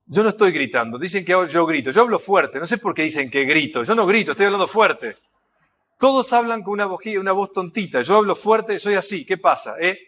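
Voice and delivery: defensive loudmouth. Retold or imitated. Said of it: "es aquel que dice".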